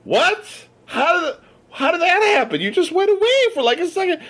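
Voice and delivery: high, laughing disbelief; stunned disbelief. Retold or imitated. Told his friend in shock, high laughing disbelief. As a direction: squeak it out half-laughing, can't believe it.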